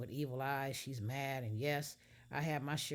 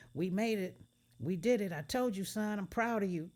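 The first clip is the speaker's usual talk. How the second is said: proud dad; 6 semitones higher, 5 dB louder than usual. Acted.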